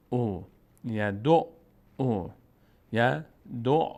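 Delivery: یدع slowed right down, the عین held double then او; doubled ain. Shown as a demonstration. Teacher showing how the doubled عین of یدع sounds, slowly. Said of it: "عین اینجا تشدید داره".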